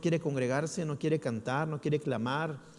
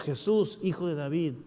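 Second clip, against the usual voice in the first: crying out; 2 semitones higher than usual. Retold or imitated. Believer calling to Jesus over the crowd, raised cry. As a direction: cry out for Jesus to hear you. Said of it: "Tú gritas".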